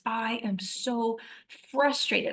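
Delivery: slow, drawn-out exasperation, mildly acted; retold frustration. Woman venting to the Lord in her bedroom, retold frustration. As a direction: let mild exasperation stretch the words. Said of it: "just feeling all of it".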